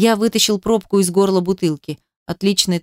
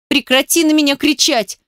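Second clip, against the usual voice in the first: ringing shout; 6 semitones higher than usual. A narrator's reading. Girl shouting back at Ruslan, high ringing yell. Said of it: "Голос её звенел".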